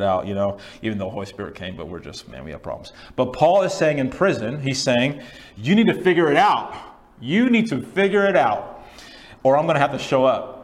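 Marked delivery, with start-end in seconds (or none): 5.6-10.6 high, raised-voice ultimatum; exasperated preacher voicing a warning; stern scolding. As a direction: lay down the law, punching the words. Voices Paul scolding from prison.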